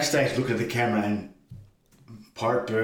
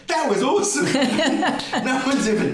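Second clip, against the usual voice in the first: high and louder, laughing delight; 14 semitones higher, 4 dB louder than usual. Retold or imitated. Veteran wrestler praising the spot, laughing with delight. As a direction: burst out thrilled, laughing. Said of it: "Pirate Burns goes".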